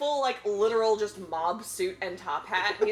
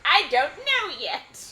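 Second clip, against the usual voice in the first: higher, louder, slow teasing Joker; mock Joker; 9 semitones higher, 7 dB louder, much slower than usual. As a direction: drag it out like a smug villain. Joker voiced in retold episode.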